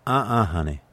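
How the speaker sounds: slow Southern drawl; waitress correcting the English customer, slow drawl. Retold or imitated. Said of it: "And she said".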